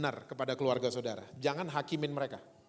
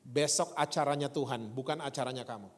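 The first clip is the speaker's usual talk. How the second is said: calm reassurance; 3 semitones lower than usual. Retold or imitated. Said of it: "dia ngomong gini".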